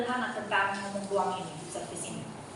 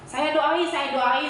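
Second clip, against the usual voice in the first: eager promise; 3 semitones higher, 5 dB louder, slower than usual. Retold or imitated. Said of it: "saya bilang begitu".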